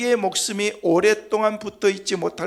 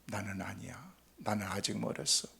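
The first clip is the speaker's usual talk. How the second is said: dismissive denial; 10 semitones lower, 11 dB quieter than usual. Retold or imitated. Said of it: "라는 그런 생각들".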